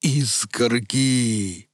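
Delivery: slow, drawn-out dazed voice; dazed simple voice. Acted. Veles repeats dreamily.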